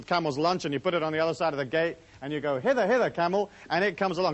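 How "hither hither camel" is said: mock old-time summons, lifted a little; playful imitation of an ancient herder's call; biblical camel call. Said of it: "that's how they talk in biblical times".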